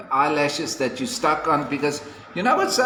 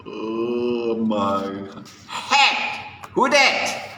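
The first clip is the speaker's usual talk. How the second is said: excited prince; 6 semitones lower, much slower than usual. Retold or imitated. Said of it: "and he's like".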